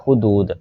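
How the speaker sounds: हुदूद as hu-dood, u in both syllables; correct pronunciation demo. Shown as a demonstration. Teacher giving the right form, careful demo of हुदूद as hu-dood. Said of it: "ये वाला सही pronunciation है".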